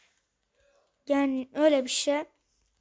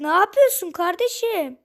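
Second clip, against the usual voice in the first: changed voice; 4 semitones higher, 6 dB louder than usual. Real, not acted. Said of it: "Sesim değişikliğe uğradı".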